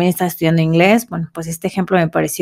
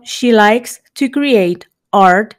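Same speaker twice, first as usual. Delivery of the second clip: slow model sentence; slower than usual. Shown as a demonstration. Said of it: "Como ejemplo".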